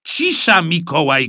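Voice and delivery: high, loud demand for silence; shouted order. A narrator's reading. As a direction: hush the boy sharply. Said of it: "krzyknął tata". (krzyk zniecierpliwionego taty)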